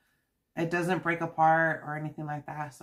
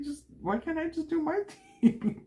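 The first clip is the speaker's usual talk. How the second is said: imitating a whiny teen, much higher; mock kid complaint, pitched way up; put-on high whine of a sulky son; 12 semitones higher than usual. Son retold whining again.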